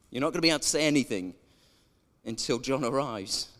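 a hint of a stern angel rebuking the priest. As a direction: scold like a cross angel with arms folded. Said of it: "sternly looks at him and goes".

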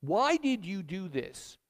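mock scream at God. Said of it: "you just need to scream at God".

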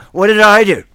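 high, loud put-on voice of a beaten man; mock bewildered victim. Preacher voicing Sosthenes being beaten, mock bewildered. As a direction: cry out like an innocent victim.

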